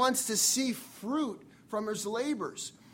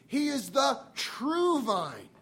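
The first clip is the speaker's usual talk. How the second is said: "true" slow and weighted, as if in bold; stress on TRUE; 3 semitones higher, slower than usual. Shown as a demonstration. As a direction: lean hard on "true". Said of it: "we would put it in bold, italicized".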